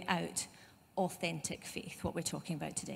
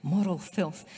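Moral filth in a judgy Scottish accent, louder; 6 dB louder than usual. Shown as a demonstration. Preacher savouring James's harsh words, in a judgy Scottish accent. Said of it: "If you say that in a, in a Scottish accent, that really works".

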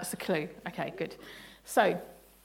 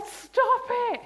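firm command; 13 semitones higher, 3 dB louder than usual. Retold or imitated. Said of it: "And Jesus said".

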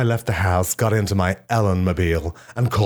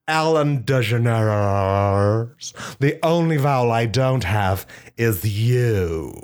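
wife proposing; 3 semitones higher, slower than usual. Pretend. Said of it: "she said".

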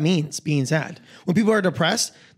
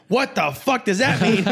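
put-on girlfriend's baffled retort; 6 semitones higher than usual. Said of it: "And she's like".

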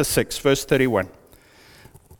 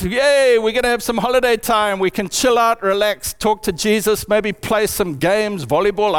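mock excited disciples; 3 semitones higher than usual. Disciples cheer for holiday.

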